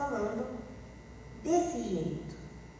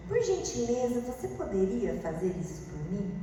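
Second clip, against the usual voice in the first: softer, courteous ask; polite request; 2 semitones lower, 4 dB quieter than usual. Shown as a demonstration. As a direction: ask it kindly with a rise. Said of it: "Pode perceber que é diferente". (pedido educado e suave)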